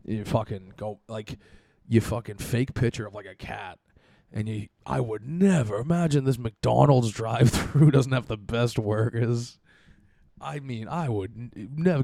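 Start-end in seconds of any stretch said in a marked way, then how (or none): 4.3-12.0 sarcastic mocking. Mocking the reviewer.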